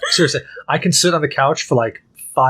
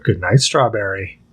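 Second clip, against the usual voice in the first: gentle good night; 5 semitones lower than usual. Retold or imitated. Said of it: "I'll literally go".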